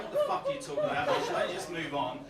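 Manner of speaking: high, fast mock heckle; heckling audience member. Comic voicing the audience heckling him. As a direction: squeak out the audience's impatient heckle. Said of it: "those of you without will be going".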